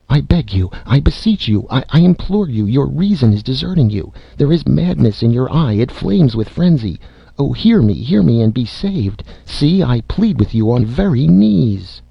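high-pitched, imploring aunt, acted; desperate pleading. A narrator's reading. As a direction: beg and beseech, voice lifted high.

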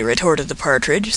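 ordinary delivery, nothing marked

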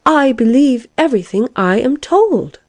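high, solemnly assured claim; earnest insistence. A narrator's reading. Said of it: "with as grave a face as if it were a fact".

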